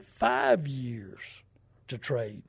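hushed, slow confiding whisper; slow whisper of bad news to a friend; whispered warning. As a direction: lean in and breathe it like a secret. Warning buddy about truck loan.

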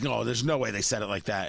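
low, dismissive doubt; disbelief. Retold or imitated. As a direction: scoff that it can't be true. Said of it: "You're like".

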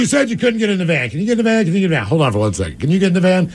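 high, pleading coaxing; high exasperated pleading. Retold or imitated. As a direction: coax her, exasperated. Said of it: "I'm like".

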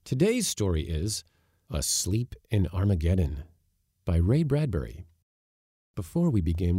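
upbeat sponsor read; lively podcast intro with lifted key phrases; podcast host read. Acted. Host thanks a sponsor before the story, upbeat ad read.

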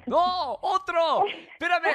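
surprised. Real, not acted. Host hears same complaint again.

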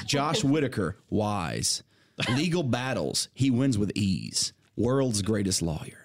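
slow haiku recital; poem reading. Shown as a demonstration. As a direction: read each line with weight. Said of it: "the first is".

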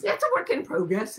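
mock Aussie work in progress; light Australian accent imitation; imitating Australian accent. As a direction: copy her Australian vowels. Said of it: "as she says in her Australian accent".

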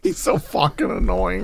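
whispered annoyed aside; whispering. Real, not acted. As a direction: hiss it under your breath. Annoyed aside under breath.

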